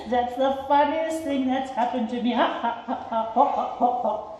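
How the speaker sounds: mock giggle breaking into ha-has; a hammed-up elephant laugh; giggling elephant. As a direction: laugh at the funniest thing ever. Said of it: "He began to giggle".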